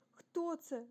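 high, loud anxious question; frightened question. A narrator's reading. Rasmus dares not look round, asking fearfully. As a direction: ask it scared, voice jumping up. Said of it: "озирнутися було страшно".

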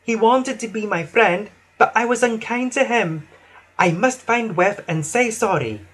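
high, regretful engine voice; Emily. A narrator's reading. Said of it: "Emily sighed".

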